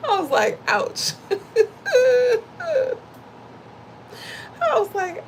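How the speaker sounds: a high, half-laughing, half-crying "Ouch". Real, not acted. Wife recalling her husband's rebuke, laughing pained ouch. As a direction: laugh through the sting.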